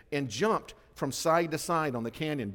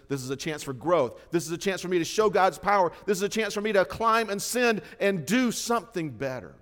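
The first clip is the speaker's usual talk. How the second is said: eager resolve; 4 semitones higher, 5 dB louder than usual. Retold or imitated. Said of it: "looks at those obstacles and says".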